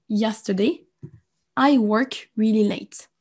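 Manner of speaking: slow, careful demo of the wrong sentence; wrong tense example. Shown as a demonstration. Teacher slowly reading a learner's wrong sentence. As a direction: read it out slowly as the mistake. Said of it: "il y a une faute".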